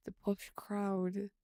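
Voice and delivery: slow, voiced posh British accent; drawn out in a posh British accent. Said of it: "Where's the accent from?".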